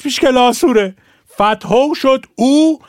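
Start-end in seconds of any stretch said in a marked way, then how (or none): 0.0-0.9 کلاسوره in Shirazi form with o ending; Shirazi pronunciation. Shown as a demonstration. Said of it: "حال شیرازش".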